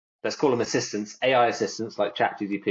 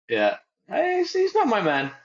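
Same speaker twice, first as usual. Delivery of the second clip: Tasmanian Aussie; 12 semitones higher than usual. Retold or imitated. Imitating Tim from Tasmania, high Aussie accent. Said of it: "thing Tim would, from Tasmania would say".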